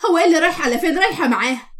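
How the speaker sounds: mildly outraged retort; affronted echo question; indignant echo. Acted. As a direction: throw the question back in disbelief.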